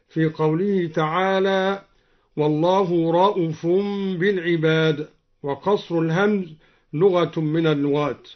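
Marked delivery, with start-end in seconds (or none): 2.4-5.1 رؤوف said short, "ra'ufun"; no long oo after the hamza in رؤوف; shortened hamza. Shown as a demonstration. Teacher showing al-Duri's reading, short "ra'uf" for رؤوف. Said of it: "وقصر الهمزة".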